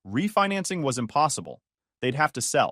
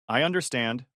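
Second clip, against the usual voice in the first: calm. Acted. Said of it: "I said calmly".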